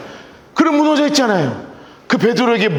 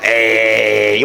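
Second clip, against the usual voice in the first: very low, very slow 에이; mock dismissive groan, stretched long; drawn-out scoff; much slower than usual. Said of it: "막 이러면서 해요?". (비웃듯 아주 낮고 길게 끄는 에이)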